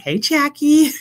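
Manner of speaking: high, loud shout-out mid-sentence; real burst of excited hello; excited greeting. Real, not acted. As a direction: call out a delighted hello to a friend. Calls out greeting to arriving viewer.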